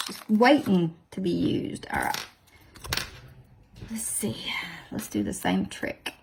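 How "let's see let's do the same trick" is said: 1 whispered to herself. Real, not acted.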